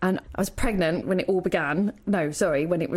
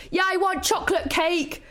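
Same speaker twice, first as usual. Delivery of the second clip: put-on eager kid; 8 semitones higher than usual. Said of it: "And he's like".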